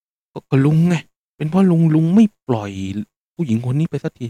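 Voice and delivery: high, loud blurted answer; exasperated punchline. Retold or imitated. Old driver delivering the passenger's verdict, high and loud. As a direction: blurt it out, half-laughing.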